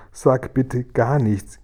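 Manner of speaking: slow, emphatic begging; suffering plea. Acted. Poor Guri begging for silence, suffering plea. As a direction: plead it word by word.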